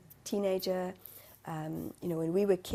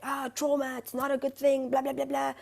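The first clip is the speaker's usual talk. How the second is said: higher brushed-off husband voice; imitating husband; 6 semitones higher, 4 dB louder than usual. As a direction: mimic him shrugging it off, pitched up. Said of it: "he's like".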